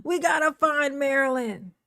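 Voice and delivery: lifted, lilting repeat. Real, not acted. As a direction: raise it into a playful announcement.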